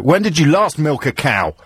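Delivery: slow, grilling interviewer voice; Jeremy Paxman. Shown as a demonstration. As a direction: interrogate like a hard news interviewer. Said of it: "like Jeremy Paxman had just come into the studio".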